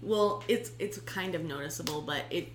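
slight lisp, thick tongue; swollen tongue lisp. Real, not acted. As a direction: speak around a swollen tongue. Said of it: "my tongue is swollen".

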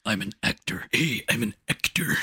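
lightly voiced actor impression; Dave Bautista. Mocking an actor for his friend, put-on voice. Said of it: "doing your Dave Bautista voice".

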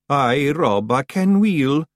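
mildly chastened, high voice; obedient. A narrator's reading. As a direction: answer like a dutiful little brother. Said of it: "said Woolly obediently".

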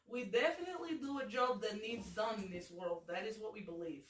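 earnest comic Russian henchman; Russian accent. Acted. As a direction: defend the job in mock-Russian. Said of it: "person that this Russian accent would".

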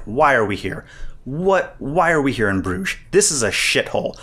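mildly exasperated griping, retold; imitated complaining. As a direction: quote a fed-up complainer, lightly acted. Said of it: "Colin Farrell is just complaining".

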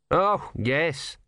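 mildly sarcastic agreement. A narrator's reading. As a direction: agree with dry sarcasm, pitched a little up.

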